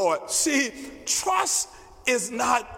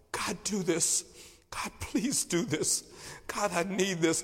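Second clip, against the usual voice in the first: tearful plea; 7 dB quieter than usual. Retold or imitated. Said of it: "just crying and calling on the name of the Lord".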